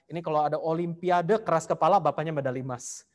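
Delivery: normal talking voice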